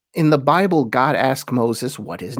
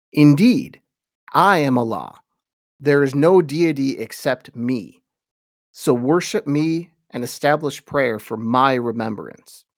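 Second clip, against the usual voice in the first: solemn scripture reading. Acted. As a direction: read it like sacred text, unhurried. Reads Quran translation aloud.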